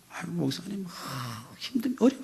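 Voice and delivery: soft, high imitation of an excuse-maker; high, hushed mock excuse; unapologetic excuse. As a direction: mimic a deacon making excuses as if owed. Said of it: "아주 당연한 거죠".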